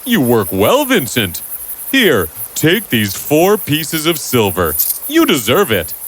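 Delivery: delighted businessman. Acted. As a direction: admire the fine work.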